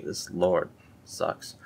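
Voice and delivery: muttered aside. Real, not acted. Muttered verdict on scripture.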